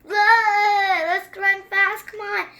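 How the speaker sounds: high and loud, half sung; eager little brother urging the others to run; excited kid. Retold or imitated. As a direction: call it out bouncing with excitement. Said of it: "Flynn again is like".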